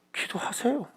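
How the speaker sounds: high, light, soft voice; pat pastoral reply. Acted. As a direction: chirp it back as a stock answer. Acts pastor's pat reply to complainer.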